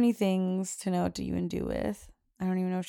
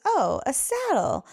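retold delight, higher, louder and drawn out; excited child; 6 semitones higher, 5 dB louder, slower than usual. Mom retells daughter spotting her gift, excited. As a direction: imitate a child's excited discovery. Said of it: "she was really excited".

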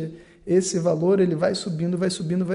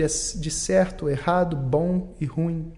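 slow stress; much slower than usual. Real, not acted. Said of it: "linguagem de".

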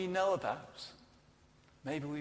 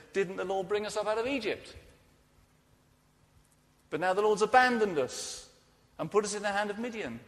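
louder, higher, indignant protest to God; Gideon's raised complaint; 4 semitones higher, 5 dB louder than usual. Acted.

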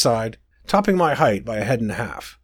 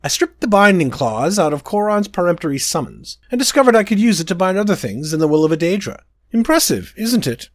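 high, self-satisfied royal boast; smug prince; 4 semitones higher than usual. Acted. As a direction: preen about the clever spell.

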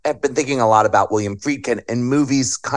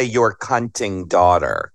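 campy drag queen; 4 semitones lower, slower than usual. Retold or imitated. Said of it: "Sounds like a drag queen".

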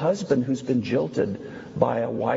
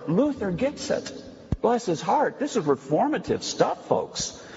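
higher-pitched enthusiastic outburst; excited preaching; 5 semitones higher than usual. Real, not acted. Preacher delighted that Luther gets it, excited. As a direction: let real excitement lift the voice. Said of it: "I'm getting excited here".

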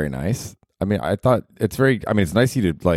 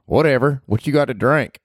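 much higher, brash redneck woman; Ruth from Ozark; 6 semitones higher than usual. Acted. Podcaster voicing Ruth, cursing at him, brash and high. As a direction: snap it like a foul-mouthed hillbilly girl.

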